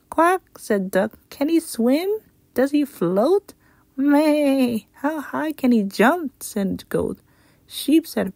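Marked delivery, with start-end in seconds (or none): 0.1-6.4 high, eager questioning voice; curious animal. Acted. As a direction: farm animals quizzing about the newcomer. Duck and Goat ask questions.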